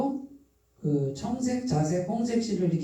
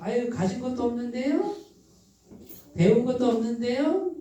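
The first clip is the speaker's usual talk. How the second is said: Chungcheong dialect; 5 semitones higher than usual. Acted. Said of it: "충청도 사투리 쓰네 제가".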